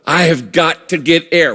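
mildly desperate plea. Acted. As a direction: act out a touch of desperate need for air. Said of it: "When you get that desperate".

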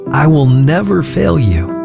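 ordinary talk

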